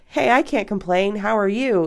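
breezily bat the question back; mock-casual pleasantry; deflecting small talk. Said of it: "Immediately turning it back to the other person".

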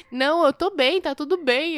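husband insisting he is fine to drive; drunk husband voice. Retold or imitated. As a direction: play the stubborn drunk husband brushing her off. Wife retells drunk husband's refusals.

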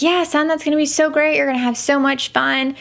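bright, quick cheering for her son; supportive mom. Retold or imitated. Mother cheering her son toward the zip line, brightly. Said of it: "I was so supportive".

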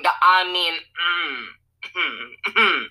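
glitchy call audio, words breaking up; call dropping out. Real, not acted. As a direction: voice cutting out on a bad line. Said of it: "Oop, you're glitching out".

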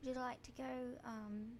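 lightly attempted British; tentative polite British invitation; British accent. Shown as a demonstration. Host trying British again, light British accent. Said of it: "I'm gonna do British".

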